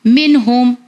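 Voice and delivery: "मिन हुम" with the n sounded plainly, unheld; clear n. Shown as a demonstration. Teacher showing the rule, "मिन हुम" with clear n. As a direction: say "मिन हुम" with a distinct short न. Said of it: "नून का sound जाहिर होना चाहिए".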